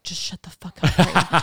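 laughing, playfully irritated order; laughing mock snap. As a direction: tell them to shut up while cracking up. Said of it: "but I was like".

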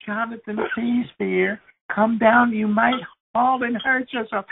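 mother now near panic, voice climbing. Retold or imitated. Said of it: "his mother was going".

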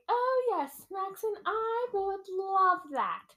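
very high, put-on sweetheart; mock-delighted, sing-song acceptance; gushing princess voice. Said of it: "Your accents are just".

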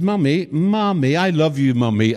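lightly voiced child cooing, slow; a hint of a toddler sweet-talking; sweet little girl. Preacher imitating a girl sweet-talking her mum, lightly voiced. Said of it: "And she said".

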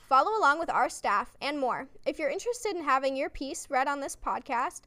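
loud, lively podcast host intro. Acted. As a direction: welcome listeners and plug the show with energy.

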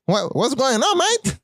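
high British "what's going on, mate?" swooping up on "mate?"; hammed-up Cockney, voice soaring at the end; English accent. Showing off his rusty accent, hammed-up British. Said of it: "hace tiempo que no hago el acento inglés".

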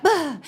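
put-on a kid caught out, yelping; startled bah. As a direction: jump at your own name. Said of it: "I have this moment of".

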